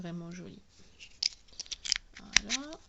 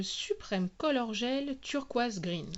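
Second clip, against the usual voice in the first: loud, slow product name in heavy French-accented English; showy on-camera announcement in clumsy French-accented English; 4 semitones higher, 5 dB louder, slower than usual. Real, not acted. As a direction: spell out the English brand name slowly, with a strong French accent. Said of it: "je m'excuse pour ma prononciation anglaise désastreuse".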